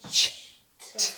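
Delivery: whispered ch then t, sound by sound; teacher sounding out the last sounds of pinched; sound segmenting. Shown as a demonstration. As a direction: split the end of pinched into ch and t. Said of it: "Let's do the sounds".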